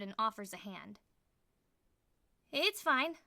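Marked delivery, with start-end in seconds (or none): 2.5-3.2 flustered, higher and louder; startled stutter after slipping on the step. A narrator's reading. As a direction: trip over the words, startled. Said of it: "I stutter".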